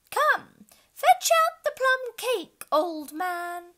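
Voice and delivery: high, loud and slow; loud, high unicorn order; loud demand. Acted. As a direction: call for the cake in a high, bossy voice. Unicorn orders plum cake.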